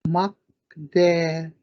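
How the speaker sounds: "Makdewez" slow and clear; slow pronunciation. Shown as a demonstration. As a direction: spell out "Makdewez" with your voice. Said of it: "A black bear".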